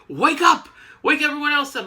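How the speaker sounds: high, loud retold command; mock wake-up shout. Professor ordering Iceman to wake the team, high mock shout. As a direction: yell it like rousing a sleeper.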